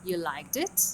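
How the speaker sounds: slow rising tune on you liked it; teacher shows the take-off rise; intonation demo. Shown as a demonstration. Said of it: "before the stress syllable".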